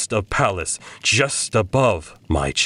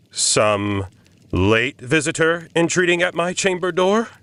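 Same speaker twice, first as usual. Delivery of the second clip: high anxious question; 10 semitones higher than usual. A narrator's reading. Lone man at midnight asks himself, nervous high question. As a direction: voice lifts high, unsure and uneasy.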